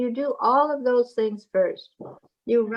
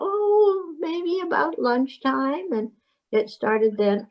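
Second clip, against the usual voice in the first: mother answering; 4 semitones higher, slower than usual. Acted. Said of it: "And she'll tell you".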